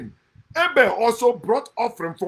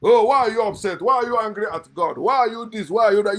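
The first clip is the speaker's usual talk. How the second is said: mocking believers; 5 dB louder, faster than usual. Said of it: "they say".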